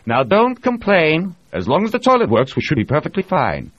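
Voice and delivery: calm the grumbling crew; Reed voiced. A narrator's reading.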